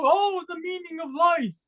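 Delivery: high, mock-awed sigh; hammed-up awe at life's meaning; mock pompous people. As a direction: send up people who ponder life. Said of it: "People go".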